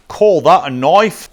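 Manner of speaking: slow, loud, hammed-up Australian accent; a rough Crocodile Dundee style Aussie imitation; mock Australian accent. Quoting a movie line to viewers, in a mock Australian accent. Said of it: "Not the best accent there".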